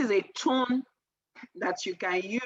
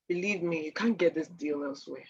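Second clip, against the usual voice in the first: grave sincerity; 4 semitones lower, 3 dB quieter than usual. Shown as a demonstration. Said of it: "there's this graveness to your voice".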